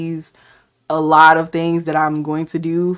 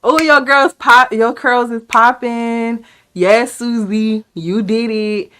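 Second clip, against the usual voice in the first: lightly voiced hype from a fan, the opening higher and louder; cheering fan; 3 semitones higher, 3 dB louder, slower than usual. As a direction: cheer her on like an excited fan. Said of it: "Just say".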